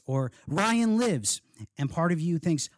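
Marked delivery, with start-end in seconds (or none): 0.5-1.4 high, restrained calling voice; mock shout. A narrator's reading. Boy calling out who lives, high restrained shout. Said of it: "someone will shout".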